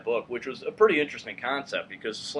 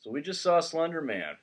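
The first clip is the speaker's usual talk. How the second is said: spooky announcer intro, higher; mock dramatic; 7 semitones higher than usual. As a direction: play it ominous but barely holding it. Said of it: "not say that with a straight face".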